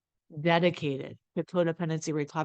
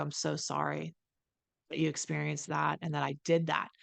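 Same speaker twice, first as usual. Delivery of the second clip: sincere apology; 4 dB quieter than usual. Shown as a demonstration. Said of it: "look at somebody ... and go".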